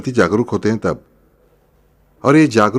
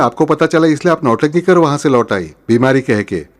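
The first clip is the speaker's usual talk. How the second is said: quarrelling daughter-in-law; 3 semitones higher than usual. Acted. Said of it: "भिड़ जाती है".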